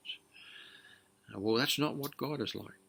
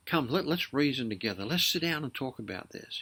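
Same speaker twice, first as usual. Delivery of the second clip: raised, coaxing invitation; inviting God; 4 semitones higher, 4 dB louder than usual. Acted. God inviting his people to reason, coaxing. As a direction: call them gently to sit and talk. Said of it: "Isaiah prophesies and he says".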